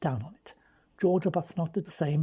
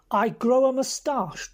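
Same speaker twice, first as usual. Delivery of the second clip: higher, louder and slow, repeating it in disbelief; incredulous echo; 6 semitones higher, 4 dB louder than usual. Acted. Bobby echoing Frankie's plan back in outraged disbelief. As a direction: throw the words back, stunned.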